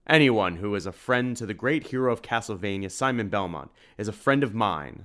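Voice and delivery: loud hearty burly man; booming gruff voice. Acted. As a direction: boom it out warmly like a big host. Edward's booming welcome.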